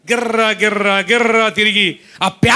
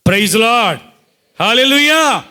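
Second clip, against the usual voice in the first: praise exclamation; 3 semitones higher, 3 dB louder than usual. Real, not acted.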